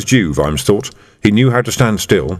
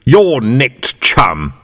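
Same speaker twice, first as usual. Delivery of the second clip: shouted; 2 semitones higher, much slower than usual. Acted.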